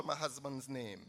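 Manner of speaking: sarcastic hushed quote; mock hush. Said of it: "But I want to whisper".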